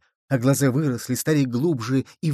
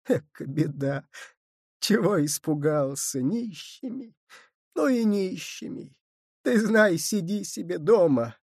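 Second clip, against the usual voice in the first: light, laughing comfort; 5 semitones higher than usual. A narrator's reading. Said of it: "тихонько, легко засмеялась".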